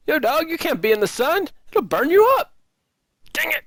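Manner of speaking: very high, put-on cartoon voice; high-pitched silly heckler; comic squeaky character. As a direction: butt in with a squeaky falsetto. Comic character interrupts the soliloquy.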